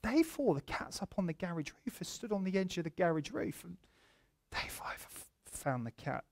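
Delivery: soft, halting breaking of bad news; gentle, pastoral. Pastor showing his assistant how to break news, gently. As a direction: ease into it quietly, with careful pauses. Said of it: "in a more pastoral, loving way".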